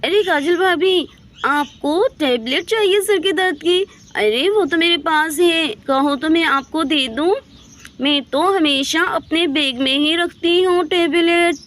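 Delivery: Reena's eager voice. Acted.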